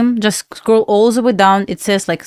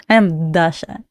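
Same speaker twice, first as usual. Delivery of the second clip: laughing; 3 semitones lower, slower than usual. Real, not acted. Laughing while correcting her name.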